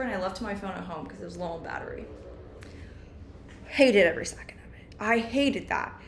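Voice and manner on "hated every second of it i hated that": whispering. Real, not acted. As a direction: breathe it out as a secret. Whispered complaint.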